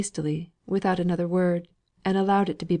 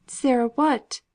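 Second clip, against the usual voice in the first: impatient curiosity; 6 semitones higher, slower than usual. A narrator's reading. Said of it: "with impatient curiosity".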